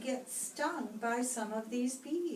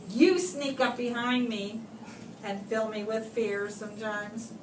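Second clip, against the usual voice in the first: rhyming read-aloud. Acted. Reads rhyming verse to children.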